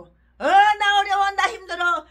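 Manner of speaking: slow, loud, mocking whine. Preacher mocking the pastor's pleading, whiny. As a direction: ham up a pitiful beggar.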